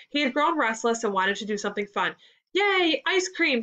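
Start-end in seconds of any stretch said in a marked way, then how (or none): 2.5-3.6 put-on high, excited child's cheer; excited screech. A narrator's reading. Ethan cheering for ice cream, high mock screech. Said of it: "screeched Ethan".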